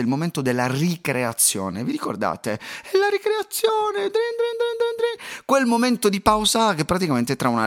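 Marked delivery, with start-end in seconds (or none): 2.5-5.4 high-pitched mock bell ringing out recess; imitated school bell. Podcaster recalling the longed-for school recess bell, shrill imitation. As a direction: squeal it like a ringing bell, far higher.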